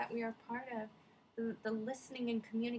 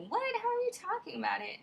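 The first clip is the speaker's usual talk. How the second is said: higher, louder startled question; surprised; 11 semitones higher, 6 dB louder, faster than usual. Retold or imitated. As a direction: blurt it out in disbelief. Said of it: "And he was like".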